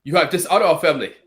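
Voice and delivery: mock-solemn movie father in a put-on Asian accent; stern Asian dad. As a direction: pronounce shame on a son as a movie patriarch. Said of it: "I know exactly what he's gonna say".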